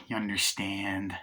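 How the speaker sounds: slow, drawn-out New York delivery; New York accent. Retold or imitated. Hitman pressing his driver, light New York accent. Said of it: "I just went all New York".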